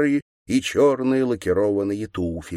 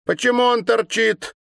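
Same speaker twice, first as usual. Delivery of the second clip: put-on high, louder girlish sneer; mocking girl; 5 dB louder than usual. A narrator's reading. Girl poking the governor with a stick, high mocking sneer. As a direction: taunt him like a spiteful schoolgirl.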